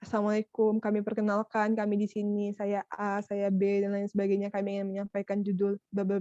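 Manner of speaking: membuka presentasi datar tanpa semangat, sedikit lebih pelan suaranya; pembukaan datar. Shown as a demonstration. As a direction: seperti membaca perkenalan yang biasa dan membosankan. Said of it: "awalnya datar langsung". (contoh pembukaan presentasi yang datar dan biasa)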